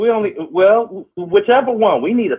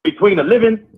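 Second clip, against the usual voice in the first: Negan; 3 semitones lower than usual. Acted. Co-host recites the proverb to the host, light Negan impression. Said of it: "that was my Negan voice".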